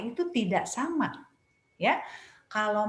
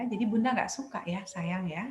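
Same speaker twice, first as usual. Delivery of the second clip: firm but loving; 3 semitones lower, 4 dB quieter than usual. Shown as a demonstration. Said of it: "tapi kita tunjukkan bahwa kita juga sayang sama dia".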